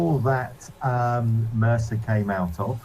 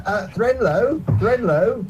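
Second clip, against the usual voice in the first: laughing; 12 semitones higher, slower than usual. Real, not acted. GM laughs while naming.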